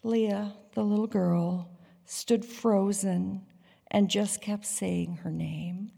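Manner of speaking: ordinary talk, nothing marked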